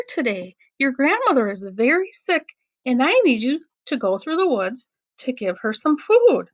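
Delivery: a hint of a fussing mother; mother's voice.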